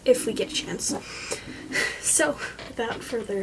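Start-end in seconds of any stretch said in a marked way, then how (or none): 1.0-1.9 soft, breathy little chuckle; short laugh. Real, not acted. Vlogger finishing her plans before the reading, short quiet laugh. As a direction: let out a small quiet laugh.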